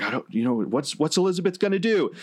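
high, rising commentator suspense; excited announcer. Retold or imitated. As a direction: imitate an announcer on the edge of the seat. Acted announcer's reaction in retold match.

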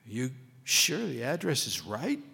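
slow, doubting question; a mild touch of disbelief, drawn out; incredulous. Acted. Chauffeur checking the card's address with Hackelman, slow mild disbelief. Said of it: "said the chauffeur incredulously".

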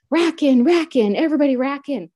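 loud, high barked command over a speaker; loudspeaker order. Retold or imitated. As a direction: call it out like a guard on the PA. Guards calling over the speaker.

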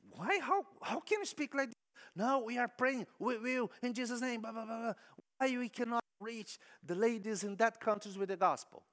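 mock indignant protest; indignant ladies. Church ladies protesting to the missionary, indignant.

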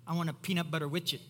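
put-on "widget" as a toddler's "witchit" for sandwich; quick, with "widget" said "witch-it"; toddler mispronunciation. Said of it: "this is what they would say".

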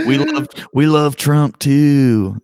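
slow, high, laughing redneck voice; hammed-up redneck line; mock redneck drawl.

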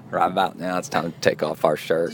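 lightly voiced laid-back film star; a hint of a movie star impression; Matthew McConaughey. Host playing along with partner, lightly voiced film star. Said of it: "Matthew McConaughey?".

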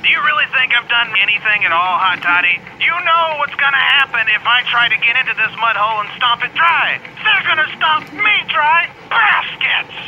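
lightly voiced nervous puppet; whiny scared little guy; Ollie voice.

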